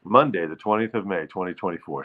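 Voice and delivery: fast, fading, no conviction; rushed throwaway. Shown as a demonstration. Host mumbling the date through fast and fading. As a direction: rattle it off like you don't care. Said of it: "Say it like you mean it".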